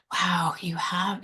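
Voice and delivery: choked, breathy whisper, slow; fighting back tears as the words come; a real catch in the voice; near tears. Real, not acted. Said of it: "I'm gonna try to do it without tearing up".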